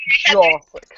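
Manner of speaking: breathy whispered name; whispered Josik. Retold or imitated. Mimicking the pronunciation.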